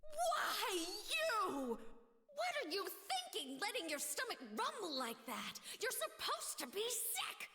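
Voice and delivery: exasperated scolding. Acted. Scolding cellmate after failure.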